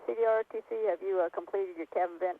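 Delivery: tinny headset radio voice; like a crackly comms loop. Real, not acted. Radio loop between consoles.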